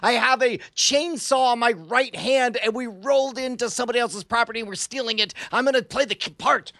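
hammed-up warlord boasting; badass villain. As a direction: revel in playing the badass. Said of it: "this is the one chance I'm ever gonna get to be this badass".

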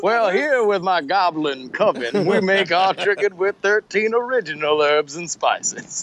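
slow, lightly done Southern colonel voice; a hint of a folksy Kentucky fried-chicken pitchman; mock Colonel Sanders pitch, slow and genial. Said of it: "if they were just all Colonel Sanders".

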